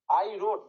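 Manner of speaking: wrote stressed and held a little; pause on wrote. Shown as a demonstration. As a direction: linger on wrote after a light I. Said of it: "রোড বলার সময় আমরা মনে হচ্ছে না একটু pause করে আসছি".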